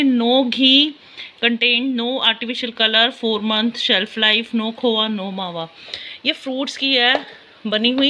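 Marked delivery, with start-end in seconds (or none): 0.0-5.7 slow, spelled-out label read; slow, deliberate reading of the pack. Real, not acted. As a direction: read every claim slowly.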